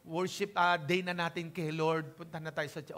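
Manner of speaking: put-on soft, coaxing mother asking her child along; gentle invitation. Mother gently inviting her child to church, soft and coaxing. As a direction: invite the child kindly, no pushing. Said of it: "basta ayain mo lang siya".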